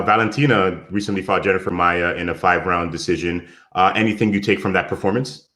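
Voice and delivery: muffled, like talking underwater. Real, not acted. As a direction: voice muffled through a bad mic line. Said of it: "now you sound like you're underwater again".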